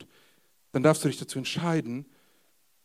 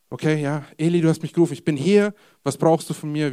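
put-on eager boy, louder; eager, louder reply to the old man; 9 dB louder than usual. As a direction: hurry in, keen to help. Boy runs to Eli, eager.

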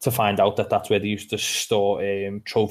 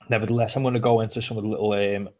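talking through hiccups; interrupted by hiccups. Real, not acted. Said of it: "I've got the hiccups".

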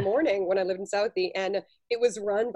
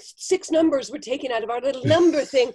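spooked bakery worker; 7 semitones higher, 6 dB louder, slower than usual. Acted. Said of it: "And they're like".

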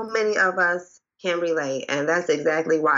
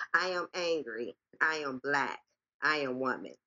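softer, pulled-back repeat of the refrain; 3 semitones lower, 10 dB quieter than usual. Acted. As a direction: drop the volume and let the refrain sink in.

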